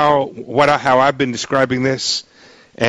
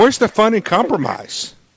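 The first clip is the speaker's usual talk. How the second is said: offhand, sarcastic tone, pitched higher. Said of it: "I'm being sarcastic".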